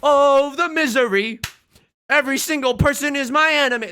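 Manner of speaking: high, loud hammed-up lament; mock despair. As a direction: wail about your misery like a tragic hero. Melodramatic despair over the game.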